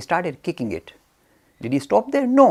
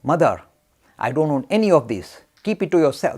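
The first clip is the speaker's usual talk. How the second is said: louder, flat refusal to the goddess; firm refusal; 6 dB louder than usual. Retold or imitated. Ramakrishna refusing the Mother Goddess's gift, firmly. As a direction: push the gift back, firm and loud. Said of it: "told the Mother Goddess".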